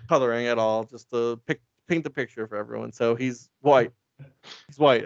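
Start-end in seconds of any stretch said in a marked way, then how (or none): 2.9-5.1 sarcastic stress on white; emphasis. Real, not acted. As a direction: stress on white, slow and pointed. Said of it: "I have to emphasize".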